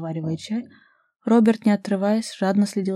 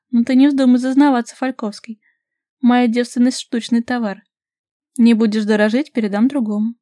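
higher, louder playful warning; teasing; 4 semitones higher, 7 dB louder than usual. A narrator's reading. Vasilisa playfully warns Robert not to get cocky. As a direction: tease him with mock sternness.

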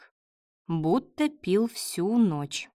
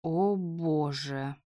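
hungover groan; 3 semitones lower, 5 dB quieter, much slower than usual. A narrator's reading.

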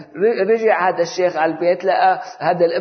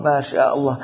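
muttered mock admiration; mocking praise; 2 semitones lower than usual. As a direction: toss it off with a smirk. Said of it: "يقرق عليه ويضحك عليه".

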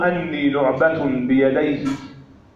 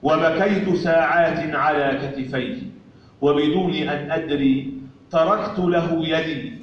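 poetry recitation. Acted. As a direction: recite the poem line by line with pauses. (إلقاء شعري متأنٍّ)

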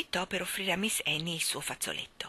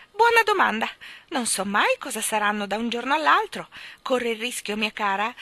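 high, loud voice of a tiny ancient woman; old Mrs Corey; 4 semitones higher, 7 dB louder than usual. Acted. Ancient shopkeeper chatters to children, high and cackly. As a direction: crackle it out as a spry old crone.

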